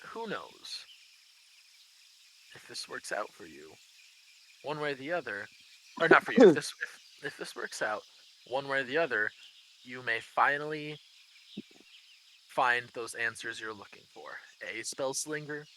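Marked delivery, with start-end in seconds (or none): 0.1-5.5 a hint of a massive dragon; big dragon voice. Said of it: "massive fuck off dragon voice". 6.8-14.3 a hint of a massive dragon; big dragon voice. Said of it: "massive fuck off dragon voice".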